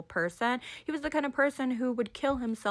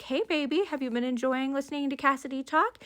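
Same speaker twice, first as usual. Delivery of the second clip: a higher, gentle coo to a husband in hospital; tender mom voice; 6 semitones higher than usual. Retold or imitated. She rubs his hand.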